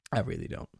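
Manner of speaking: drops way down low for a playful deep take; same words again in a very low put-on voice; mock deep voice. Repeats line in a low voice.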